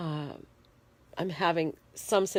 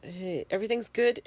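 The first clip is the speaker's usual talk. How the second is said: cheerful; 6 semitones higher than usual. Real, not acted. Cheerful turn after listing pains.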